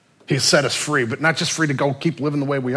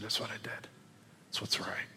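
whisper; 2 semitones lower, 19 dB quieter than usual. Retold or imitated. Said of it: "He said".

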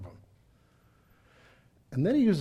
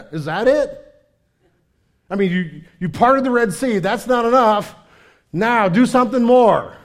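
high, louder demanding whine; mock entitled Israelites asking for more; ungrateful complaining; 5 semitones higher, 10 dB louder than usual. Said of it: "they're in the wilderness going".

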